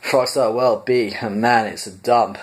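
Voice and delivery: corrected Zaphod voice, lightly done. Shown as a demonstration. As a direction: Zaphod sneering at the dump. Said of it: "wrong voice".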